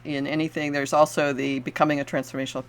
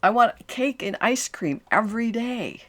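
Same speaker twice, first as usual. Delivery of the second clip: imitating a client; 6 semitones higher than usual. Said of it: "and go".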